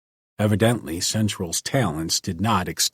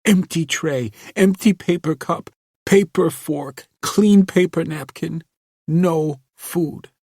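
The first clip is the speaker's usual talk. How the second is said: put-on bitter girl, rising; 9 semitones higher, 5 dB louder than usual. A narrator's reading.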